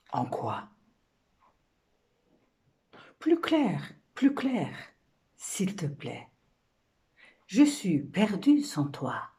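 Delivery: questions posées lentement, entrecoupées de silences; rôle de femme. Acted. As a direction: supplier doucement, par courtes phrases. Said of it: "c'est la femme qui parle". (femme suppliante, jeu de poème)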